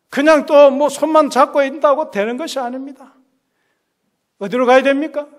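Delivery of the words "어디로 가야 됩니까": usual speaking voice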